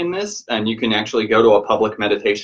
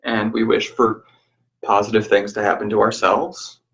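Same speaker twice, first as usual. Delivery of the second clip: measured, even guiding voice with long pauses; guided meditation. Real, not acted. Teacher guiding listeners to reflect on change, guided meditation.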